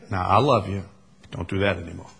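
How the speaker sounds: low, soft parental reassurance; calm loving reassurance. Acted. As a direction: gently close the matter after a hug. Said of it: "And then you hug 'em and you say".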